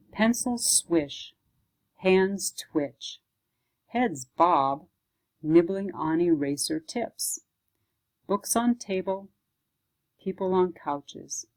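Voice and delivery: measured recital in short separate phrases; poem reading. Acted. Librarian reading a teen writers' poem, paced recital. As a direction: let each little image land, pausing between them.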